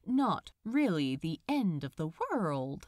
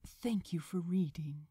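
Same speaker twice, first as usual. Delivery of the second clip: whispered thanks. Real, not acted. Narrator signs off.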